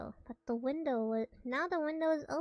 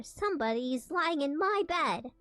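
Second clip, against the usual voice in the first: louder, excited little bear cry; lightly voiced little bear, raised and eager; little wee bear voice; 4 semitones higher, 5 dB louder than usual. A narrator's reading. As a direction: squeal it out like a small cub who found her. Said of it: "little wee bear's little wee, wee voice".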